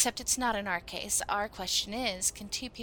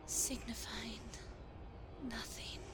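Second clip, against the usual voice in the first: soft hushed whispering of the lines; whispered recital; 12 semitones lower, 9 dB quieter, slower than usual. Acted. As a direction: breathe the words like a secret.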